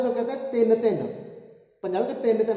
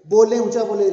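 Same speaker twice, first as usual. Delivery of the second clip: "बोलें, ऊंचा बोलें" called out louder; speak up loudly; 6 dB louder than usual. Shown as a demonstration. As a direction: urge the class to say it loud.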